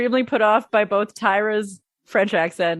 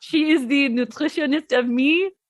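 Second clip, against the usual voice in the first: fake French accent, put on for show; 3 semitones higher than usual. Imitating Tyra's put-on French accent on the show: put-on French accent. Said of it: "she is doing her patented French accent".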